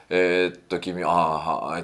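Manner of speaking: mock indecisive umming, drawn out; dithering, looking around. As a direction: play someone sizing up each face slowly. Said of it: "ジロジロ、".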